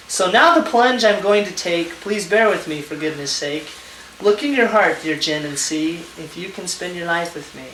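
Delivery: measured, sing-song rhymed reading; lilting recital, each couplet falling at the end; poem recitation. Real, not acted. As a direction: read your own love poem aloud, line by line. Reads out his proposal poem.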